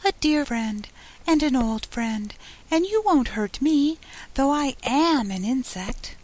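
high, small insect voice; little voice. A narrator's reading. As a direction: plead gently in a tiny high voice. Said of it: "the little voice went on".

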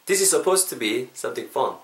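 very slow reassuring English; slow teaching voice. Shown as a demonstration. Teacher slowly reassures learners about pronunciation. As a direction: stretch each word for learners. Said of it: "익숙해지실 겁니다".

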